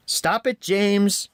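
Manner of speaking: high, sharp yell; Thomas yelling. A narrator's reading. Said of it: "Thomas yelled".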